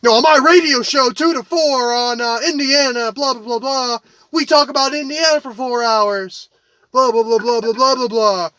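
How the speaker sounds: lightly mocking radio host impression; mild mock self-promoting blather; Dan Dockich. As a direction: imitate a commentator droning on about himself. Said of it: "all I hear from Dan Dockich".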